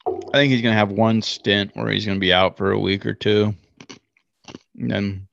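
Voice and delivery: talking while chewing ice. Real, not acted. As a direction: mouth full of ice. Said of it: "Sorry, chewing ice".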